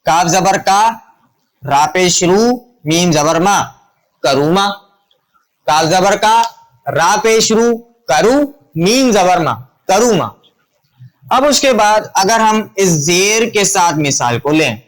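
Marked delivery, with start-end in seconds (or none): 0.1-10.3 measured "کاف زبر کا", pausing after each syllable; spelling-out drill. Shown as a demonstration. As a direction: build up syllable by syllable, then join "کروما" as ka-roo-maa. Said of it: "ان تینوں مثالوں کے ساتھ اگر ہم اس کو پڑھیں گے تو کیسے".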